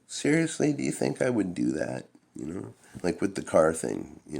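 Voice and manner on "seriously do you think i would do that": high, incredulous denial of innocence; mock-outraged kid denying everything; indignant protest. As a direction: play the wronged innocent teen. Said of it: "I'd just be like".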